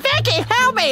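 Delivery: put-on high, pleading, begging cry. Picturing the captured bears and imitating them: imitating the bears pleading. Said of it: "they'll be all like".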